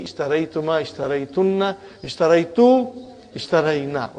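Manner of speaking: rhythmic recitation of verb forms; quick conjugation drill. Shown as a demonstration. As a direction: rattle through the conjugation table like a classroom drill. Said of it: "Let us do quick, quick conjugation".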